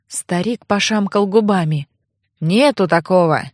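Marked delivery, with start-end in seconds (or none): 2.4-3.4 put-on low, blunt old man's denial; a lightly voiced old man brushing it off; curt old man. A narrator's reading. Archivist denying the name, low and blunt.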